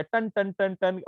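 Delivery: imitated notification bell. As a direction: mimic a phone's repeated alert chime, drawn out. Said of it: "notification bell open है तो टन टनाटन बजना". (फ़ोन की घंटी की नकल)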